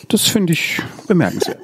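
whispered dry aside; whispering. Acted. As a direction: whisper it like a sly remark. Mock-indignant aside to co-hosts. (trocken geflüstert)

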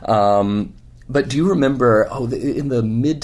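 hoarse after a convention weekend; worn, scratchy speaking voice. Real, not acted. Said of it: "I apologize for the scratchy voice".

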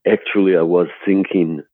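put-on halting director with a Finnish accent; deliberate, lightly imitated Finnish accent. Director breaking awkward news to actor at costume fitting, Finnish accent. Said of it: "in his Finnish accent".

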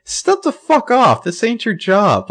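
high, loud, slow scolding; mock-furious telling-off. Host telling Paige to back off, mock-furious scolding. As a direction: lay into the character, stretching the words out. Host tells off a show character.

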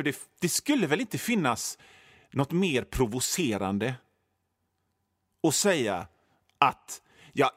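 ordinary talk

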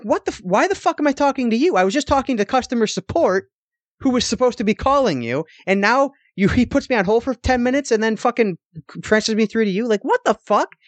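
high-pitched exasperated ranting at the clerk; retold angry rant. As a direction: pitch up and vent like you're losing it. Retold yelling at Best Buy clerk.

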